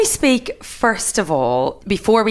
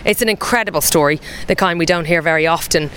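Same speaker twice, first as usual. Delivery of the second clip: podcast host intro. Acted. Host reads show intro.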